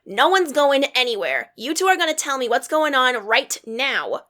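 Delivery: insistent. Acted. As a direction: put your foot down. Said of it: "Roxy insists".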